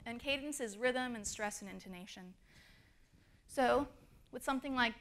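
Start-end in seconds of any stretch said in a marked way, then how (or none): none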